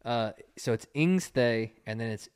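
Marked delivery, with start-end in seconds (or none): 0.9-1.7 "Ingsthe" slowly, as INGS-thay; correct Pig Latin. Shown as a demonstration. Teaching co-host Pig Latin, slow "Ingsthe" as INGS-thay. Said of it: "It's not Ute".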